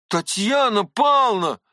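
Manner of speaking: a sharp, urgent cry of her name; восклицая; exclaiming. Acted. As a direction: call her out to stop her. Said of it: "вскричал я".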